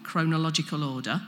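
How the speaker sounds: ordinary talk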